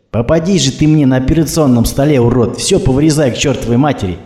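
high, loud angry shout; shouting after them. Acted. Woman driver shouts after the thugs, angry and loud. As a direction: hurl it after the departing jeep. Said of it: "крикнула она вслед".

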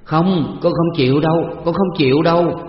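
high, loud wailing sobs; crying out in pain. Acted. Daughter in labor crying to her father, high loud wailing. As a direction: wail and plead as if the pain is unbearable. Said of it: "Hồng Lan giãy giụa khóc lóc".

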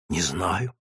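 low, soft, frightened answer; timid answer. Acted. Scared mother answers the sergeant's question, low and soft. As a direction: shrink back as you answer.

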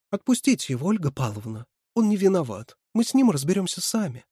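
high, urgent plea; pleading. A narrator's reading. Катерина begs Ольга Павловна to let him go, pleading.

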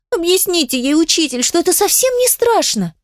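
high, gentle pleading. Acted. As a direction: ask softly through tears. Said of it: "уже куда мягче".

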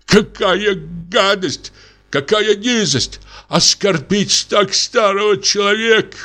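insulted captain protests to the wedding guests; indignant. A narrator's reading. Indignant outburst.

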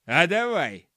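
loud, keen acceptance; punchy yes from a keen gnome; eager gnome. A narrator's reading. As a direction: agree with gusto in the gnome's voice. Archie eagerly accepts the job.

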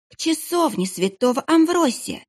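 put-on high, stammering child's voice; babbling frightened boy. Terrified boy blurts where the passage leads, high. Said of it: "пролепетал мальчуган".

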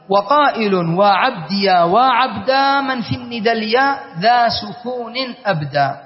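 slow measured recital of a verse; verse recitation. Shown as a demonstration. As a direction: chant the line of poetry slowly. Teacher recites a grammar verse.

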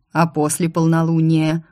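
insistent, pressing question; stubborn question. Acted. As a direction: ask it stubbornly, not letting go. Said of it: "упрямо вопросил". (упрямо, настойчиво)

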